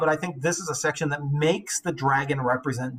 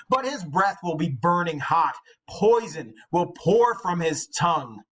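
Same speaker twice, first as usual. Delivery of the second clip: put-on old hero's boast; 4 semitones higher than usual. Beowulf boasting to his followers before the dragon, proud and slow. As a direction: boast like an aging warrior. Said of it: "then he said farewell to his followers".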